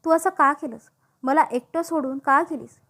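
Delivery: a mild, grieving outcry, pitch rising; anguished cry. Acted. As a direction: cry out to the dead girl in despair. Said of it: "मी जोरात किंचाळलो".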